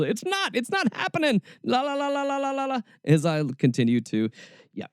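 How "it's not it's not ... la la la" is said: high, sing-song mock voice, much higher; mocking people who deny global warming, in a high sing-song; mocking deniers. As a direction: chant la la la like a child plugging its ears.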